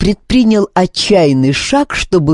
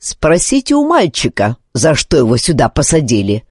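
smirk. Acted. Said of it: "криво ухмыльнулся тот".

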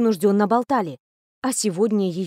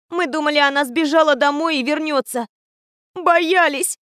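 higher voice close to sobbing; bursting into tears; 5 semitones higher than usual. A narrator's reading. Alma confessing to the teacher, breaking into tears. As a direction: let it break into tears at the end. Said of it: "разрыдалась Альма".

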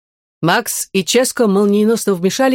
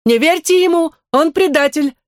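shouting; 10 semitones higher than usual. A narrator's reading. Android warning children the teacher is a traitor, shouting. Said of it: "закричала Андора".

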